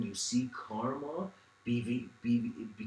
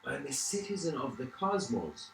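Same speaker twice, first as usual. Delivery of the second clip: De Niro voice; 6 semitones higher than usual. Retold or imitated. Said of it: "just went into this Robert De Niro mode".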